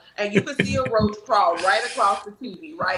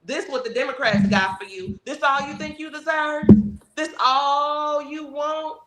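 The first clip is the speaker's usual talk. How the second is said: playful persuading voice, rising toward the end; encouraging pitch; 2 semitones higher, 3 dB louder than usual. Pretend. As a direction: win them over, friendly and upbeat. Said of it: "We're gonna say".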